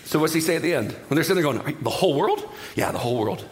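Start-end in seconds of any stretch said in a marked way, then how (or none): 1.8-2.5 disbelieving question. Acted. Disciples asking Jesus. 2.7-3.4 lower, settled reply; Yeah, the whole world, said lower and falling; Jesus calmly reassuring disciples, low answer. Acted.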